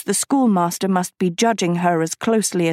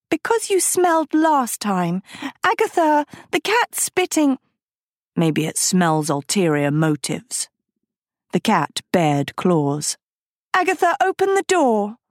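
rising alarm; 3 semitones higher than usual. A narrator's reading. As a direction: call for help, pitched up and pressing. Sophie panicking at the cat.

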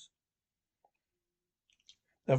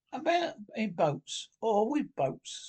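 slow, unruffled and higher; composed; 5 semitones higher, slower than usual. Acted. Rat after crashing the boat, slow and composed. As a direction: carry on calmly as if nothing happened. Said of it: "Rat went on composedly".

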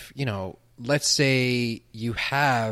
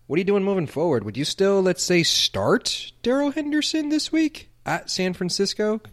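choppy audio cutting in and out; broken up bad connection; tape dropouts; 9 semitones higher, 4 dB louder than usual. Real, not acted. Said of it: "Your audio keeps cutting out on my end".

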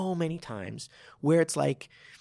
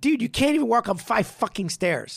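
mock retort; 7 semitones higher, 5 dB louder than usual. Retorting to the bragging student.

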